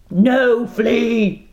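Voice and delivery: captain rejects first mate; furious roar. Acted. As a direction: bark it down. Captain roars refusal.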